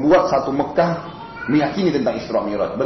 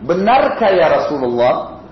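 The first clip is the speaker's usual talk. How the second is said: slow, deliberately raised question; 3 dB louder, much slower than usual. Retold or imitated. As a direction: ask loudly so the crowd hears. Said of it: "sengaja kerasin suara".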